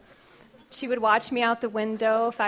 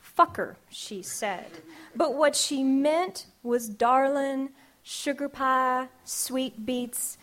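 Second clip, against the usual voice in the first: measured, rhythmic spoken-word delivery; poem reading; slower than usual. Acted. Poet reading her grandmother poem to the audience, rhythmic. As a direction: let each image land in the verse.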